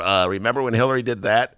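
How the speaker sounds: a light, understated Trump voice; Donald Trump imitation. Host doing a brief Trump imitation, barely changed. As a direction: drop in a lazy Trump recollection. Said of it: "that's my Donald Trump imitation".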